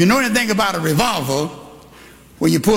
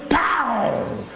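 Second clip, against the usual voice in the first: mock gunshot; 7 semitones higher, 3 dB quieter than usual. Gunshot in the story.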